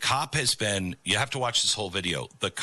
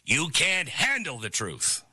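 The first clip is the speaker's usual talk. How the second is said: lightly voiced movie-star impression, emphatic and higher; a hint of a famous courtroom outburst; mock-dramatic movie quote delivery; Jack Nicholson; 4 semitones higher than usual. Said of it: "I'm turning into Jack Nicholson".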